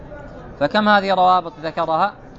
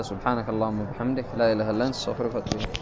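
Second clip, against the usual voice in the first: quiet closing prayer; 9 semitones lower, 8 dB quieter, faster than usual. Real, not acted.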